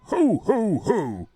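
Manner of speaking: jolly ho ho ho. Acted. Santa actor's jolly greeting.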